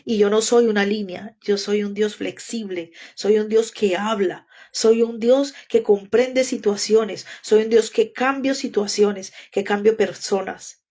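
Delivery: slow, deliberate words of God; slow solemn voice of God; God speaking slowly. Retold or imitated. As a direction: let each phrase land slowly and gently. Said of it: "Me dijo".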